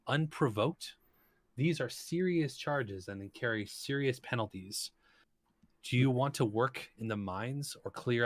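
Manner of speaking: stern Emir. Acted. Emir lists the charges.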